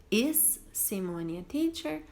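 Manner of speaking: slow trial question; trying option two. Shown as a demonstration. Teacher testing verb choices with the class. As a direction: test the next option slowly. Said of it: "Eu falo".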